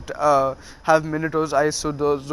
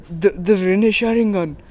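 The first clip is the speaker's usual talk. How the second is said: higher, mock-fearful stutter; scared stammer; 4 semitones higher than usual. Jiraiya recognizes the Rinne Sharingan, stammering in mild mock fear. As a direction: falter on the first word, then let pitch lift in awe. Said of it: "why are you so scared".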